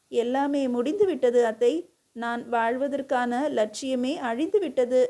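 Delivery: plain reading voice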